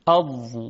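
اض with the ض pressed from the tongue's side against the upper molars; slow tajwid sounding of اض; Dad demo. Shown as a demonstration. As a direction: say اض twice, the ض firm and held. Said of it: "و تلفظ کنید اض".

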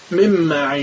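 من معی with the e-like vowel, men ma'i; Egyptian phone reply. Retold or imitated. Egyptian answering the phone, mimicked by the teacher. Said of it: "پشت تلفن میگه".

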